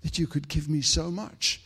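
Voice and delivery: hushed disbelief lifting to a high, moved cry; retold tearful prayer. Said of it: "I just sat there weeping".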